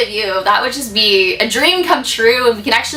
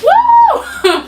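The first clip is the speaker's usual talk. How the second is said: sudden high shrieking ghost woo, half laughing; mock-scary haunted-house woo; creepy demon woo; 5 dB louder than usual. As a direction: spook yourself with a shrill, loud demon cry. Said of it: "that nasty guy looking at me like".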